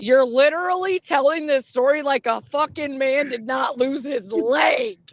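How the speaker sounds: real indignant scolding; mad. Real, not acted. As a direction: rant at a friend in outrage. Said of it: "It just made me mad".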